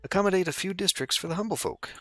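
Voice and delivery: quest title read. Acted. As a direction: read it out like a grand quest heading. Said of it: "quest title read twice".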